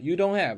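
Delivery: You don't have with the h swallowed, stressed on don't; h dropped. Shown as a demonstration. Teacher recalling the dropped h in You don't have. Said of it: "是一个击穿".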